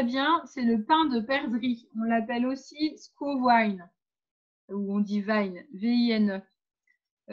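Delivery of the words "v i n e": slow letter-by-letter spelling; deliberate spelled-out letters. Shown as a demonstration. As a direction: spell it out slowly, each letter separate. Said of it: "je vous l'épelle".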